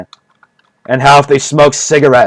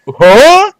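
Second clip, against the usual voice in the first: squeaky high mock disbelief, higher; mock Joe amazed; 11 semitones higher, 3 dB louder than usual. Imitating Joe Rogan hearing the meth theory, high mock disbelief. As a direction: shoot up into an astonished squeak. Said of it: "what Joe would be like".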